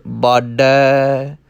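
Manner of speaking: ਬਾਡੈ slow with light pressure. Shown as a demonstration. Teacher shows ਬਾਡੈ slowly. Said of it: "ਥੋੜ੍ਹੀ ਜਿਹੀ ਦਾਬ ਦੇਣੀ ਪਵੇਗੀ".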